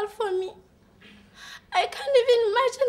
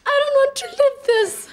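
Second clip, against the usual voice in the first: louder, hammed-up despairing cry; louder mock wail; 2 semitones higher, 5 dB louder than usual. She wails her woe at her friends, louder and hammed-up. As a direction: throw the line out like a tragic heroine. Same line repeated, now louder.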